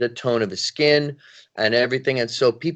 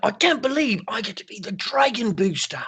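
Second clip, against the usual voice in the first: put-on English accent; 9 semitones higher, 3 dB quieter than usual. Speaker retells voicing a character for a job; English accent. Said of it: "but with an English accent".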